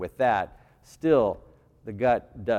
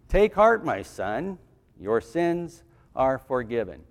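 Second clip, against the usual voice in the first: Jesus comforting; slower than usual. Acted. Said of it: "he said to the paralytic".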